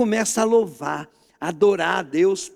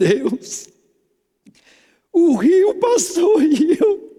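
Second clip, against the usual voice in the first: put-on tearful man's crying voice, higher and louder; 9 semitones higher, 6 dB louder than usual. Retelling what a man at church said about the service: imitating a man crying. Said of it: "esse cara começou a chorar".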